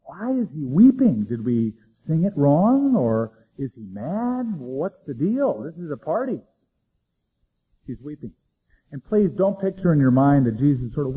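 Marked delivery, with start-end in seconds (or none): 0.0-6.4 nervous crowd. Retold or imitated. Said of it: "people got a little nervous going".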